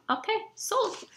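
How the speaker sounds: mock sold. Mock instant decision.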